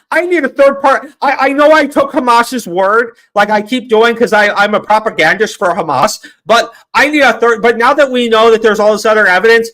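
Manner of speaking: imitating a streamer on Piers Morgan; mock pundit. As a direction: parody a smug streamer. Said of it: "he goes out to Piers Morgan".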